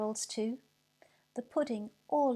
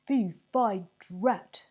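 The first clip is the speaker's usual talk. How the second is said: frustrated sergeant; 7 dB louder, much slower than usual. A narrator's reading. Sergeant thwarted again.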